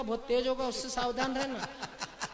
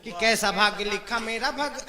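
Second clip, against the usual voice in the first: poem recitation; 4 dB louder than usual. Acted. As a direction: recite to the crowd in rhythmic phrases. Starts the verse, breaks off.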